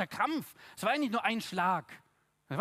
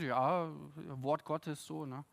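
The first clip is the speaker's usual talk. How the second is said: mock pious shrug; 4 semitones lower, 3 dB quieter than usual. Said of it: "denken uns".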